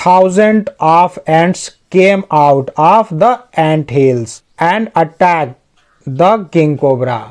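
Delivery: slow, deliberate English sentence reading; slow read-aloud. Acted. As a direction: read it word by word for learners. (धीरे-धीरे, शब्द दर शब्द वाचन)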